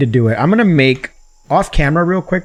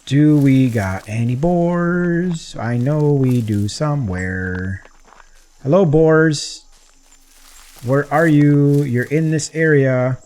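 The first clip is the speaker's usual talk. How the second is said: slow, drawn-out call, raised in pitch; playful calling out; 3 semitones higher, slower than usual. Pretend. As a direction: call for the animals, stretching each word. Calling out to unseen boars.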